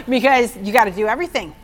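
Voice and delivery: laughing through the line. Real, not acted. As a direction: chuckle while saying it. Laughs at law-keeping.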